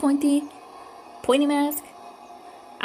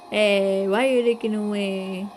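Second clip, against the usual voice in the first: loud; 6 dB louder than usual. Real, not acted. Teasing the character on screen.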